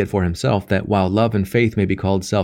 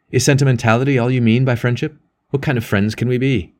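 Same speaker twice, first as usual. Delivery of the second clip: sudden heat; 3 semitones higher than usual. Acted. Elder priest rounds on Percy in sudden heat. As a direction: let a flash of anger through. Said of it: "A sudden heat touched".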